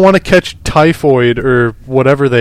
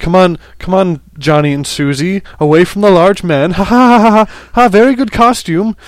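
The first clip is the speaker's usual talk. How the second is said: high mock nervous laugh between words; nervously laughing parents; 7 semitones higher than usual. Parent steering kids from the large man, nervous fake laughter. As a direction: play a parent uneasily ushering the kids away. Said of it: "like, nervously laughing as they tried to usher their kids away".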